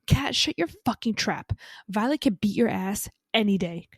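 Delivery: a fan defending her heroine, loud and fired up; mock furious. Real, not acted. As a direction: snap at the character on Violet's behalf. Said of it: "fan scolding a character".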